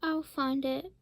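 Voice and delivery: mild cry. Acted. Holden calling after the eagle, mild cry. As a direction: call it out with a hint of resolve. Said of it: "cried Holden".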